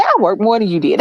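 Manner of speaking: casual joking comeback. Retold or imitated. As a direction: toss it off as a harmless tease. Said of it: "and I jokingly".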